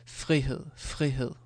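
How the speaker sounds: "frihed" with the r barely heard, falling; very soft r. Shown as a demonstration. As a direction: soften the r in "frihed" almost to nothing. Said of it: "I can say it, like, very soft".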